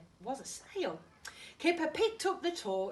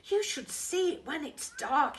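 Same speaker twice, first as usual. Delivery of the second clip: excited Tiger voice; 7 semitones higher, 7 dB louder than usual. Acted. Tiger voiced in read-aloud story.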